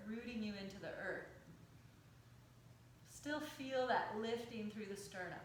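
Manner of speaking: calm, measured yoga teacher's cueing; guided yoga meditation. Acted. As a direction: guide them through breath and stretch, unhurried, with pauses. Leads yoga breathing and stretches.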